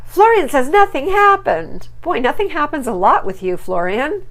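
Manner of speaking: high, loud mocking disbelief; sarcastic disbelief. Real, not acted. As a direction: scoff at his excuse loudly. Mocking Florian's excuse.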